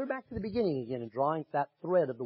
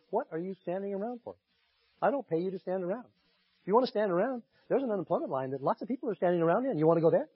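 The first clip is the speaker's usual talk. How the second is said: barking tyrant boss; 5 semitones higher than usual. Retold or imitated. Preacher voices a scolding boss.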